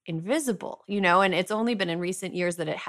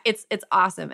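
sarcastic; 3 semitones higher, 4 dB louder than usual. Real, not acted. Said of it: "Absolutely no sarcasm there".

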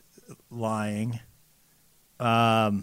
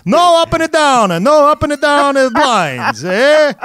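higher-pitched mock Italian accent, scolding; 8 semitones higher than usual. Venetian blind seller scolds a customer in a hammed-up, higher Italian accent. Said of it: "I'm laughing so hard at your accent".

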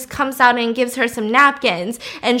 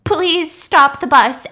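higher, drawn-out imitated plea; desperate plea; 3 semitones higher, much slower than usual. Sick Lizzie calling to Charlotte from the aisle, desperate plea. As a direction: beg slowly, about to vomit. Sick friend pleads before vomiting.

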